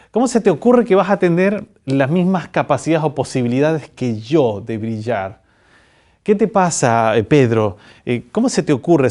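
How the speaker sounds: reproche exagerado en broma; regaña con fingida incredulidad, subiendo el tono; indignación fingida. Pretend. Jesús indignado imaginado, en broma. (indignado de mentira, con énfasis)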